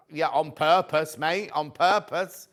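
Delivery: pointed retort. Retold or imitated. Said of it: "I'm like".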